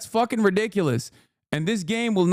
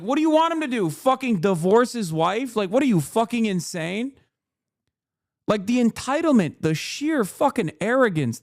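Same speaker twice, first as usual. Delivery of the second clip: exasperated outburst; 5 semitones higher than usual. Real, not acted. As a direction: pitch jumps way up, fast and incredulous. Outraged rant at critics.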